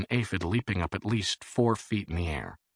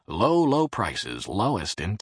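ad pitchman; 2 semitones higher, 4 dB louder, slower than usual. Acted. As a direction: sell it like a store ad. Fantasy ad pitch.

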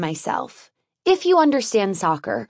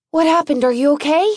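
calling out high and loud, panting; out of breath; 6 semitones higher, 5 dB louder, much faster than usual. Acted. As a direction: gasp it out after a sprint. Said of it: "I say between breaths".

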